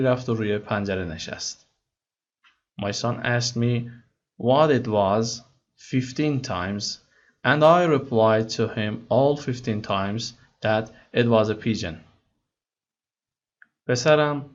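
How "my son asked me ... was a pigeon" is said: slow, careful read-aloud of English text; slow story reading. Acted. Teacher reading the English story to students slowly. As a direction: read each word slowly for learners.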